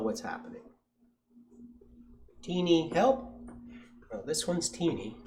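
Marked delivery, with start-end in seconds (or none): 2.4-3.3 raised-pitch, milder cry for help; calling for help. A narrator's reading. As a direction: repeat the plea without shouting. Repeats the call for help.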